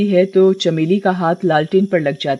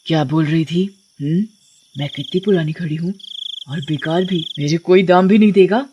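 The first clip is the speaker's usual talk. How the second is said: lightly voiced threatening witch; a touch of sinister witch; menacing witch. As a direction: taunt the victim with her own insult. Witch confronts wife.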